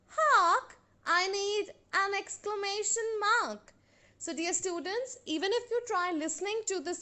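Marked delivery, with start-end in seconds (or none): 0.1-0.8 loud, high exclamation; crying out. Shown as a demonstration. Teacher demonstrating an interjection in a poem, crying out. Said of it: "The interjection cries out". 1.0-3.7 measured, sing-song verse with drawn-out line endings; poem recitation. Acted. Teacher reciting a grammar poem for students, measured recitation.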